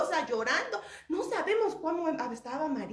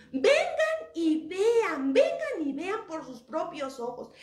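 louder, lifted urging; urgent invitation; 4 semitones higher, 4 dB louder than usual. Acted. Angels urging the women to see the empty tomb, urgent invitation. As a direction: urge them to come and look.

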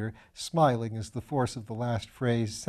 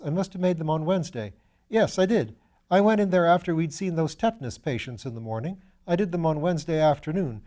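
put-on higher, bright-eyed young medical student voice; eager young student; 4 semitones higher, 4 dB louder than usual. Young Piggott protesting to Lord Peter, higher eager student voice. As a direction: play the eager, slightly foolish young student.

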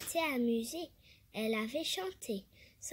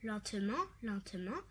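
soft gloating; 4 semitones lower, 6 dB quieter, faster than usual. Acted. Tortoise gloating softly.

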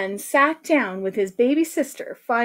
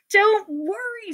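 slow, higher reassurance; confident teacher; 10 semitones higher, slower than usual. Acted. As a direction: reassure them grandly.

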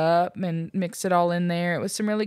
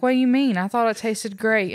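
surprised; 4 semitones higher than usual. Retold or imitated. Shocked reply to husband.

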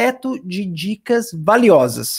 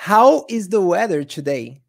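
careful dictation; slower than usual. Shown as a demonstration. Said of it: "treinar a minha pronúncia no Search by Voice".

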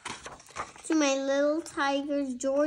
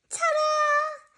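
much higher triumphant ta-da; proud ta-da; 14 semitones higher than usual. Acted. Lily showing off her tail to Tig, triumphant. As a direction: present it like a magic trick.

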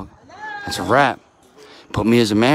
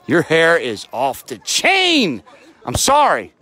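overexcited; slower than usual. Real, not acted. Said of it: "I'm trying to contain myself".

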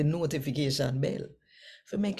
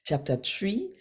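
scripture reading; 3 semitones higher than usual. Acted. Reads scripture aloud in Patois.

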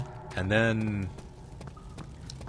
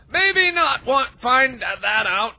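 slow hesitant; 14 semitones higher, 6 dB louder, much slower than usual. Real, not acted. Wary aside.

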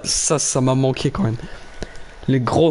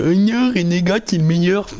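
mocking voice; 5 semitones higher than usual. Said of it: "Ta gueule, gros".

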